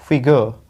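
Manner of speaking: फिगर as FI-guh, no r at the end; silent R. Shown as a demonstration. Teacher removes the s for students, फिगर as FI-guh without r. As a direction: drop the final r of फिगर. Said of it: "आर नहीं बोलेंगे".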